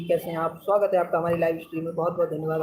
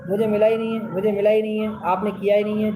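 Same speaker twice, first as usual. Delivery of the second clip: mock angry quote. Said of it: "ऐसे करके बोल रही थी उल्टा सीधा".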